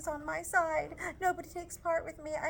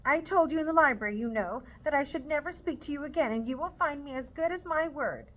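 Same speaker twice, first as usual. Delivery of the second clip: higher, louder, indignant scolding; scolding mother; 6 semitones higher, 4 dB louder than usual. Acted. Mrs Bennet scolding Lizzie for refusing, loud indignant scold. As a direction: scold the daughter hard.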